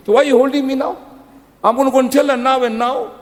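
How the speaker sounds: high, loud mock argument. Preacher acting a family squabble, loud and high. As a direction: play the mother-in-law squabble hammed up. Acted quarrel, mother and son.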